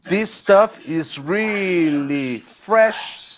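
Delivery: slow, stretched robotic sample voice; synthesized voice. Retold or imitated. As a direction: drawl it out like a synthesizer. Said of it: "É uma voz sintetizada".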